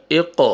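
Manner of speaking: اق with a jolt on the ق; qalqala bounce. Shown as a demonstration. Teacher shows the qalqala echo, jolted. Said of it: "قلقلہ ہوئے گا".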